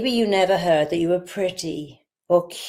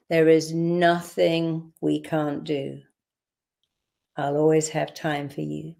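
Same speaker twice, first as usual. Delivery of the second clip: tender affirmations. Shown as a demonstration. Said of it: "So let's do it again".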